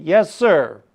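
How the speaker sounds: polite smiling yes. Acted.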